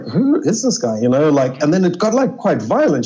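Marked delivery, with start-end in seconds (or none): 0.1-1.0 high startled question; sudden high-pitched disbelief; surprised. Retold or imitated. A stranger starts pushing him at the bar: startled, high.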